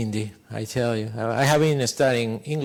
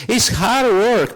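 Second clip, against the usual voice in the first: "hard work" stretched slow, higher; slow emphasis; 7 semitones higher, 4 dB louder, much slower than usual. Real, not acted. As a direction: lean on "hard work" deliberately. Stressing effort to audience.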